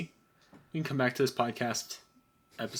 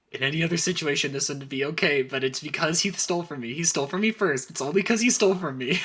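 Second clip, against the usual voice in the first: mock justifying; 4 semitones higher, 3 dB louder than usual. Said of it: "she's like".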